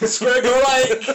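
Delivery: a slow, loud, hammed-up Glaswegian challenge; mock Scottish fighting talk, drawn out. Still doing Scottish for the podcast, hammed-up Scottish accent. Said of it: "can you do a Scottish accent for us".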